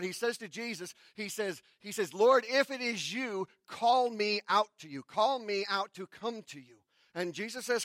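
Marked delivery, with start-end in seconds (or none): 2.1-6.8 calling out loud across the water; louder call, pitched up; yelling out. Retold or imitated. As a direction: Peter hollering to Jesus from the boat. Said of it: "and he yells out".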